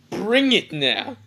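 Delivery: high, drawn-out mock battle cry; battle challenge. Naruto challenging Rock Lee after powering up, hammed-up battle cry. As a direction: stretch it out like a hammed-up anime fighter.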